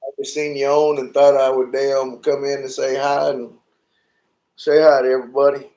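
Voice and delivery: echo mic. Real, not acted. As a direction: voice drenched in reverb echo. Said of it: "I got the reverb turned up on my phone".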